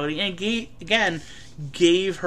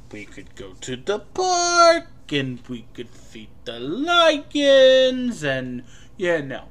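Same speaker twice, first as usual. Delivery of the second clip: indecisive Jewish caricature; slower than usual. Retold or imitated. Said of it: "I'm going to be very Jewish".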